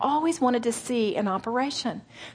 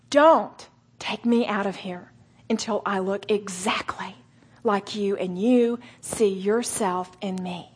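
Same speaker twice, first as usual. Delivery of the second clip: slow, voiced and sincere; earnest prayer; slower than usual. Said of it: "gritted teeth and many tears".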